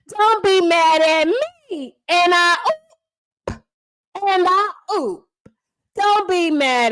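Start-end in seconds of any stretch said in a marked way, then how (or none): 0.1-2.0 slow, teasing, drawn-out; mock apology. Refrain of the roast. 2.1-5.3 slow, campy "And I oop"; meme catchphrase. Acted.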